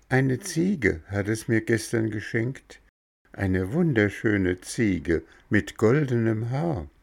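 a tiny creature giving friendly directions; cricket voice. Acted. Cricket tells visitors how to open door, high little voice.

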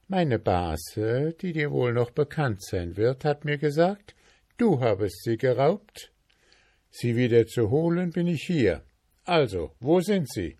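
stern goldsmith. Acted. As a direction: corner the dwarf with questions.

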